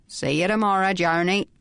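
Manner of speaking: oily, ingratiating man's farewell; unctuous. Acted. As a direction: slime it on, falsely friendly. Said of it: "the voice became unctuous".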